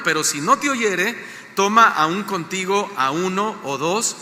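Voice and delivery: slow, measured Bible reading; scripture reading. Acted. Pastor reading Jesus' words to the church, slow scripture reading. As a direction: read the verse out deliberately, phrase by phrase.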